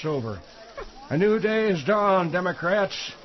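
lightly voiced senator speech; pompous politician impression; Arlen Specter impression. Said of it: "The speaker does a rockin' Arlen Specter".

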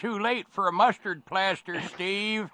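put-on high, crackly old-timer voice; old man voice. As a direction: play a fussy old codger. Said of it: "I got to use my old man voice".

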